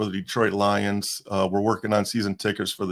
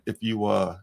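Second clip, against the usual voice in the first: spitting through a numb mouth; numb face after dentist. Real, not acted. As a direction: numb lips after dental work. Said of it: "excuse me, I'm spitting all over".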